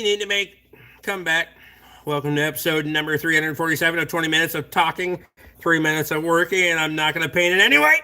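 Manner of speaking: lightly voiced show-host intro, even until a rising finish; Toby. Reading out Rick Bork's impression of Toby, lightly mocking show intro. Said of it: "The Rick Bork impression of Toby".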